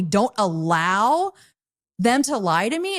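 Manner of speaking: slow, rising mock quote. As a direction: drag it out, mocking the letter. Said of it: "excuse me, but that is not how this works".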